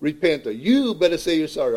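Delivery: half-hearted scolding demand, stressed YOU; mock yelling. Offended member confronting a brother in private, mildly mock yelling. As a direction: imitate someone yelling, without a real scream. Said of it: "yelling and screaming and telling them".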